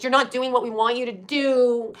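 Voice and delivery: slow, sneering mimicry; mocking whiny voice. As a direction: parrot her complaint back mockingly. Mocking Paula's complaint.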